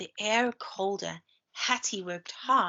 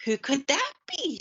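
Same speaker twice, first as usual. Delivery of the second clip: grumbled; 6 semitones higher than usual. A narrator's reading. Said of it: "she grumbled".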